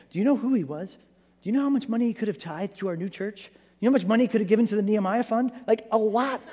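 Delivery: high, loud, baffled disciples pleading with Jesus; exasperated disciples. Retold or imitated. Disciples protesting to Jesus about the rich man's money, high and exasperated. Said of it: "See what I did there?".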